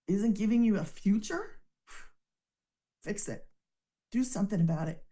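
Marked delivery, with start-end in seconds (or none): 1.9-3.5 sighing whisper. Real, not acted. Sighs, then urges action.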